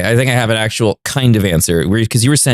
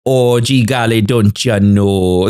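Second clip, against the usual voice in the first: put-on hokey American accent; much slower than usual. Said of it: "what is the most intelligent".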